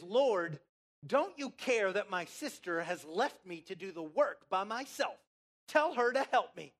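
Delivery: loud acted grievance, rising at the end; guilt-tripping complaint. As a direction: plead accusingly as the put-upon sister. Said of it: "she guilt trips the Lord".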